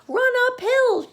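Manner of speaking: very high, loud bleating cry; sheep crying. A narrator's reading. The sheep crying advice, high and loud. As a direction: bleat it out shrilly. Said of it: "cried the sheep".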